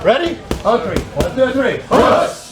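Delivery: sharp loud call to push; barked command. Real, not acted. Coach calls command during drill.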